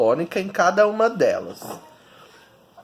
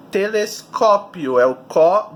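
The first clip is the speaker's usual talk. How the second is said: "telescópio" slowly with a strong CÓ; slow teaching stress on "telescópio"; 3 dB louder than usual. Shown as a demonstration. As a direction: punch the CÓ in "telescópio". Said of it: "descobrir qual é a sílaba tônica".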